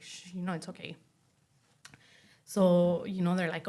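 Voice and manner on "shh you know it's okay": put-on soft, hushing comfort to a crying baby; hushed soothing. Mother soothing her bawling baby, hushed and soft. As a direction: shush her gently, very soft. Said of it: "I'm just like".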